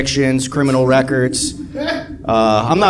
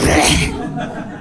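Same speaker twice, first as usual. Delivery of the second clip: mock werewolf growl. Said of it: "a werewolf, that's what happened to her".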